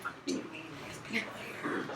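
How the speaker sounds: high, breathy disbelief; startled outburst. Retold or imitated. Startled addict hearing visitors at the door, breathy disbelief. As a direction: react as if caught off guard. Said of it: "And I'm like".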